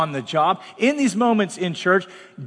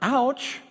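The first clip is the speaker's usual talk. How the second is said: mock pain; 6 semitones higher, 4 dB quieter than usual. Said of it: "I hit my finger".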